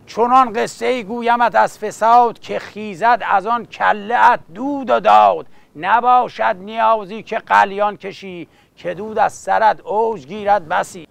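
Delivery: rhythmic epic verse recital; epic teahouse storyteller. Acted. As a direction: chant it like a coffeehouse bard.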